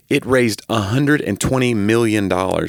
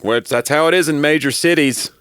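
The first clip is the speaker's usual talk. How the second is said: snooty city person; 7 semitones higher than usual. Retold or imitated. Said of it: "be all weird and be like".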